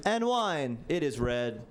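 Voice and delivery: lightly voiced awkward hostess offering wine; stiff nervous host. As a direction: girlfriend listing the drinks stiffly. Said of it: "and she was like".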